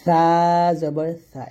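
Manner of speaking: সা with the tongue tip on the upper teeth, breath let out thin like th; সা said as th with thin air between tongue and teeth; Arabic tha sound. Shown as a demonstration. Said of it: "পাতলা করে বাতাস বের করে উচ্চারণ করবেন".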